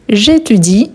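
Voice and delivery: "J'étudie" ending on a clear I; final I sounded. Shown as a demonstration. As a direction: finish "J'étudie" on the "ee" vowel, E silent. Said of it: "c'est le I qu'on va prononcer".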